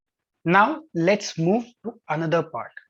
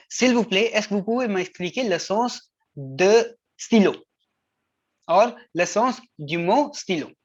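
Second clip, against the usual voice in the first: polite student request. Shown as a demonstration. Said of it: "let's say the word is".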